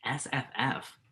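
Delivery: hushed, puzzled whisper of the letters. Real, not acted. Friend whispers back the strange acronym, puzzled. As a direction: breathe it out as a baffled question.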